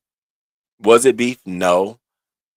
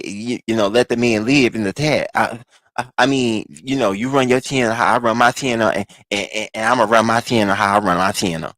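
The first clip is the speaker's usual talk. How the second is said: lightly imitated flustered man explaining himself; mock stammering excuse. Host imitating a friend told to explain himself, mock stammering. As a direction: stumble and repeat like a hedging excuse-maker.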